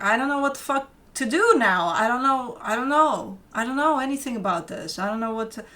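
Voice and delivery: a touch of mock panic, repeating I don't know; imitated panic. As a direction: play the flustered client who has lost the thread. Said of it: "I see you almost panicking".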